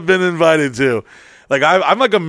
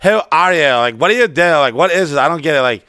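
slurred, whining drunk impression; drunk woman. Drunk woman challenging him at a party, slurred confrontation. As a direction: play a confused, confrontational drunk. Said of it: "this drunk bitch".

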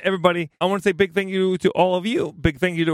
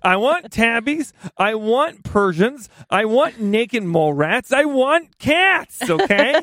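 slow, louder and higher with each item, building to a near shout on cats; a building, mock-demanding wish list, louder and higher; excited demand; 5 semitones higher, 5 dB louder, slower than usual. Real, not acted. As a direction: plead playfully for cat pictures, swelling each time. Begging listeners for cat pictures.

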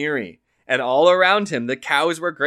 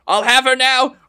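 higher, louder bawling from the sack; bawled; 12 semitones higher, 10 dB louder than usual. Acted. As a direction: bawl it out from inside the sack. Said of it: "bawled the farmer".

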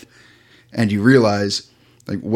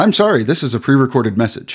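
robotic recorded message; 3 semitones higher, 5 dB louder, faster than usual. Acted.

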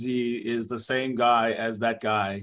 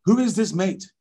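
lightly put-on French referee accent; a hint of a French accent, offended; the speaker voicing a French referee in a French accent; mock French accent. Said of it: "this is my actual interview".

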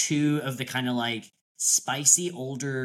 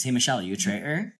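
mock interrogation; much faster than usual. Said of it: "we'll do it as a play".

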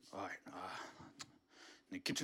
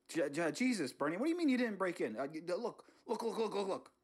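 exasperated outburst; 4 semitones higher than usual. Acted. Homeowner confronting intruder.

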